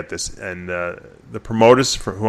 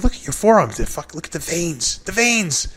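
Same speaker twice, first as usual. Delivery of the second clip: hyped praise; 6 semitones higher, 5 dB quieter than usual. Retold or imitated. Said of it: "I'm like".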